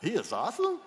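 rising incredulous shout; mocking incredulous question; doubtful mock retort. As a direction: scoff at it out loud. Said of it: "some of you are thinking".

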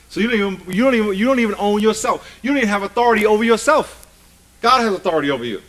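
high, loud, quick sermon delivery; full-force preaching. Real, not acted. Preacher telling believers God has authority over them, full-force preaching. Preacher drives the point home.

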